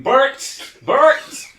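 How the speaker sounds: high, loud screeched call; piercing mock animal cry; screaming bat. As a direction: screech it like a bat, rising each time. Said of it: "and just screaming".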